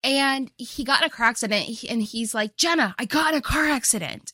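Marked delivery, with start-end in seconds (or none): 2.6-4.3 high-pitched retold excuse; mock distressed plea. Boyfriend tells his girlfriend he crashed, high mock-distressed plea. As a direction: imitate a boyfriend pleading, pitched well up.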